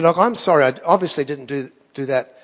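retold apology, gently lowering in pitch; calm de-escalating apology. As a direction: talk an angry man down, evenly. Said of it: "I just de-escalated the whole thing".

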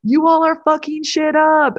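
mock yelling. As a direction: drag it out like a fed-up boss yelling. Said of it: "where you're just like".

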